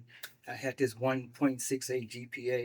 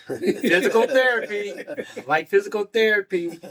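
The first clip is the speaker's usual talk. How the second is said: higher and louder, laughing into it; insistent protest; 8 semitones higher, 9 dB louder than usual. Retold or imitated. Young man insisting to the old lady, a loud high protest. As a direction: insist on your own plan. Insisting on his own plan.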